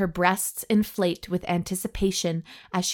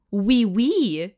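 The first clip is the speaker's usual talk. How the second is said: French hostess; 2 semitones higher, 4 dB louder than usual. A narrator's reading. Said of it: "in a seductively alluring French accent".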